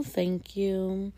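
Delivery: slow, soft and downcast; very quiet voice. Acted. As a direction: answer softly, lost in thought. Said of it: "Her voice was very quiet".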